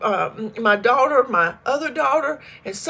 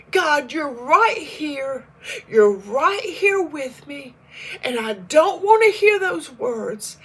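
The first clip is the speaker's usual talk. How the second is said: slowed, steadying prayer; calm herself back down with God; slow self-reassurance; 2 semitones higher, slower than usual. Retold or imitated. Scene: steadying herself in prayer after the news, slow. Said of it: "reel myself back in".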